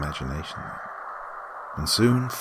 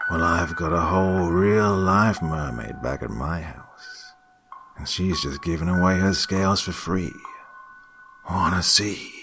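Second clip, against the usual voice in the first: creepy stranger voice. Acted. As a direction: sweet-talk a child into coming. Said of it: "the man asked".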